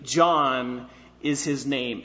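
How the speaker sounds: JOHN drawn out slowly at the front of the phrase; emphatic. Retold or imitated. Preacher gives the literal Greek word order, stress on "John". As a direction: lean long on "John", then finish low. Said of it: "It's emphatic".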